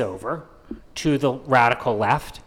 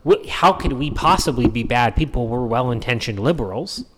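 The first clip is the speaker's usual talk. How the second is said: mock elite liberal; 3 semitones lower than usual. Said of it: "classic Democrat dog whistle of".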